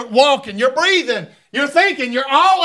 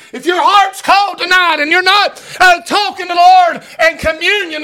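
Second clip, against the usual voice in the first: preaching at full force; 3 semitones higher than usual. Acted. Preacher pressing the church on faithfulness, building to a shout. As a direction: drive it home to the congregation.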